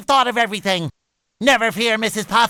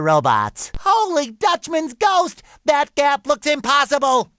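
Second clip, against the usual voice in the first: alarmed exclamation; 5 semitones higher than usual. Acted. Gap looks impossible, alarmed.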